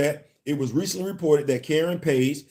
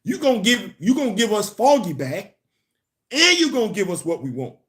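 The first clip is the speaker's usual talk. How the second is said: higher-pitched mock demand; imitating demanding fans; 5 semitones higher than usual. Fans demanding Foggy back from Marvel, lightly acted insistence. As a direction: play the fans laying down terms, pitched up. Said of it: "And the higher ups at Marvel said".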